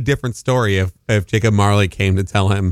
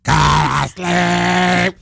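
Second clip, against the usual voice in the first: very slow, high shouted lullaby; sing-yell a harsh lullaby; mom's lullaby parody; 6 semitones higher, much slower than usual. Pretend. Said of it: "how that character, like, would sing a lullaby".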